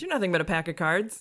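ordinary talk

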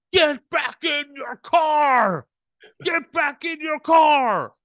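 screeching, shrill, high yell with "car" drawn out. Retelling how a sheriff screamed at the speaker from his car, imitating the screaming. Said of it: "he is screaming at me".

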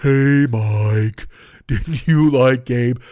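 mopey, put-upon cartoon voice, name drawn out. Speaker voicing an imagined listener writing in to needle him, in an Eeyore voice. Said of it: "Eeyore is very upset".

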